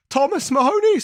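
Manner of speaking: strained, holding back a sneeze; name pushed out before a sneeze; about to sneeze. Real, not acted. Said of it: "That's why I'm talking funny".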